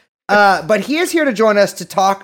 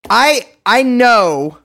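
loud, slow, drawn-out attempt at Australian; Australian accent attempt; 4 semitones higher, 5 dB louder, much slower than usual. Shown as a demonstration. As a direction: stretch it out in a put-on Australian accent. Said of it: "I was just trying to do the Australian thing".

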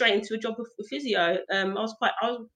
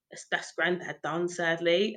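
mock grim resignation; 4 semitones lower, 5 dB quieter, slower than usual. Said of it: "I thought".

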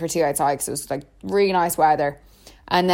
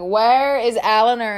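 mock shout; 4 semitones higher than usual. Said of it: "like, shouting".

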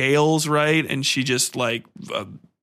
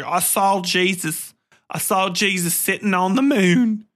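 raised-pitch imitation of a stunned believer; mock awestruck witness; 4 semitones higher than usual. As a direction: play an amazed onlooker, stretching the words. Mimics amazed crowd witnessing the apocalypse.

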